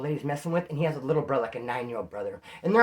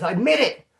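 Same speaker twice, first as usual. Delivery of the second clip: mock taunt; 5 semitones higher, 6 dB louder than usual. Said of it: "She goes".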